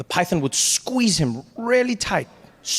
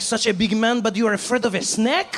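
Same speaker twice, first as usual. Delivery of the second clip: mocking French man; 6 semitones higher than usual. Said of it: "He's like".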